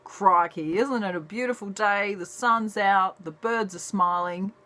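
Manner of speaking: lightly imitated cheerful Aussie wildlife man; Steve Irwin. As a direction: stay chirpy despite the huge crocodile. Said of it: "he'd still be like".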